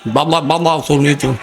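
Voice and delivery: mock toothless speaker; toothless speech. Shown as a demonstration. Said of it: "দাঁত নাই".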